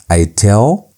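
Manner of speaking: "I tell" with the stress on the "e" of "tell"; stress on epsilon. Shown as a demonstration. Teacher showing students where the accent falls, stress on the epsilon. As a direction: lean on the "e" in "tell", ending on a rise. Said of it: "so you emphasize the epsilon".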